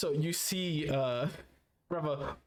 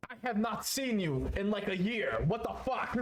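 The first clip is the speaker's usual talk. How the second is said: raised-pitch incredulous outburst; mock indignant disbelief; 4 semitones higher than usual. Game master as a brother not seen in a year, acted incredulous protest. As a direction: protest in higher-pitched amazement.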